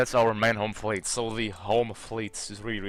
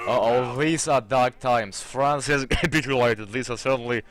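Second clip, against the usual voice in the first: mock dramatic; 6 dB louder than usual. France falls in strategy game.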